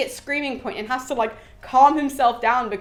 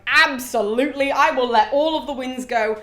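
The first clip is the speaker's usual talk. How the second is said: eager agreement; 2 semitones higher, 4 dB louder than usual. Retold or imitated. Aeolus eagerly agrees to offer.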